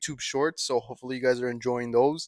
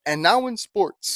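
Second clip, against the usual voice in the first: slow, announcing segment switch; news anchor voice; 4 semitones higher, slower than usual. Pretend. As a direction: hand over like a TV anchor. Mock news anchor transition.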